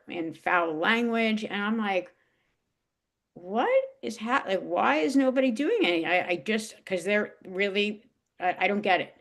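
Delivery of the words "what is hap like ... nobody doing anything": incredulous. Retold or imitated. Retelling own shock watching scene.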